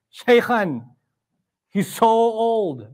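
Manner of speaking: high, incredulous mock outcry; acted crying out. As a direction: exclaim as the astonished wife. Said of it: "she cries out and says".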